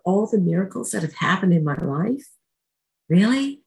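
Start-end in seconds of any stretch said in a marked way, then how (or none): 3.1-3.6 high, louder mock disbelief; incredulous. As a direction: scoff at yourself. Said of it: "self-mocking disbelief".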